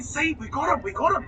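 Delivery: high-pitched retold triumph; excited vindication. Suspect retelling how he crowed over the evidence, excited. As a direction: replay the gleeful "gotcha" up high. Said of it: "I'm jumping up and down".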